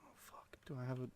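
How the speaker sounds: hushed whispered curse. Real, not acted. Raider creeping through enemy base, tense whisper. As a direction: whisper so nobody hears you.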